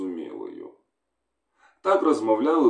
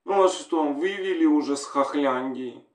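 higher woman on the phone, relieved; wife on the phone greets her husband, higher female voice; woman's voice; 4 semitones higher than usual. Acted. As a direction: voice a wife hearing her man at last. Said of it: "Хлопчик почув жіночий голос".

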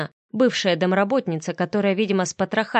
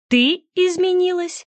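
higher, slow, disgusted spit; spat in disgust; 11 semitones higher, 3 dB louder than usual. A narrator's reading. Андрей throws Вика's claim back at her, disgusted. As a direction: spit the words out with contempt. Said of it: "с отвращением выплюнул я".

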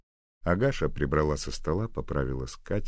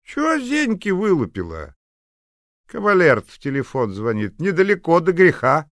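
put-on shrill scolding old woman; 13 dB louder than usual. Old neighbour scolds Nadya.

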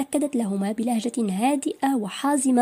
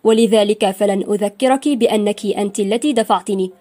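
louder, lightly sarcastic lecture; nearly mocking; 8 dB louder than usual. A narrator's reading. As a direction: needle her with mild irony, louder. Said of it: "بلهجة قريبة من التهكم". (بلهجة فيها تهكم خفيف)

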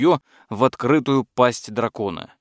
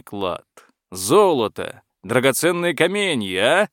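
eager dragon. Acted. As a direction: coax the knight generously. Dragon offering gifts.

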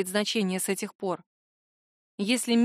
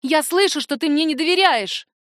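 yelling; 5 semitones higher, 4 dB louder than usual. Acted. Daughter yelling at mother.

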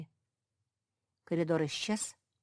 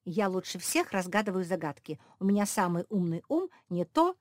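quoting Josie; 3 semitones higher, 5 dB louder than usual. Retold or imitated. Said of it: "ты обрадовалась и заявила".

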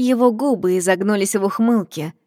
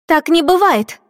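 shocked exclamation; 9 semitones higher, 6 dB louder than usual. Acted.

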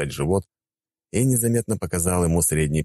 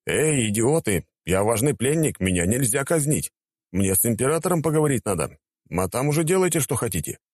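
yelling captive; 7 semitones higher than usual. Acted. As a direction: shout it, demanding to be heard.

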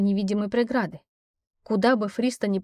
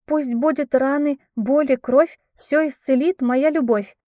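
declaiming; 5 semitones higher, 5 dB louder than usual. Acted. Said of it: "продекламировала служанка".

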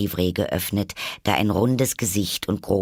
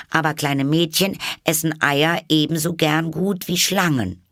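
put-on higher girl's voice, arguing; a young girl pleading her point; earnest Alice; 9 semitones higher, 4 dB louder than usual. A narrator's reading. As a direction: make her case politely. Alice argues.

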